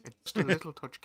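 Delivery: put-on lilting, ever-so-slightly-drunk Irish accent. Shown as a demonstration. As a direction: sound tipsy and Irish. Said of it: "if you're trying to sound Irish".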